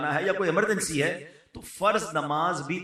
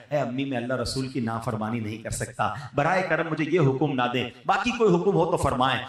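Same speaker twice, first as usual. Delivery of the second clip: pleading with folded hands; 5 semitones lower than usual. Shown as a demonstration. Son refusing his mother's order, gently pleading. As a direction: humbly beg your mother, kindly. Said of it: "ہاتھ جوڑ کر کہنا ہے".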